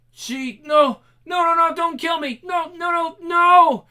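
high, loud terrified cries; panicked screaming. Acted. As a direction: scream in terror. Captive panics before death.

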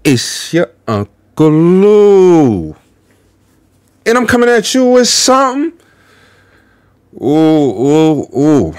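drawn-out catchphrase intro; show-opener greeting. Acted. Host greeting viewers as Uncle Lou, showy intro. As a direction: hype up the viewers with stretched words.

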